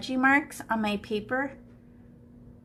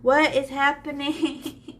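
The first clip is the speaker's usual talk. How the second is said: mock bewildered; 4 semitones higher, 4 dB louder, slower than usual. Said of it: "You're like".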